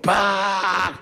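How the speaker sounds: high harsh honk like a possessed voice; demonic honk. Retold or imitated. Angry driver honks behind the car, harsh dybbuk-like noise. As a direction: blare it like a dybbuk. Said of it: "עשה קול של דיבוק".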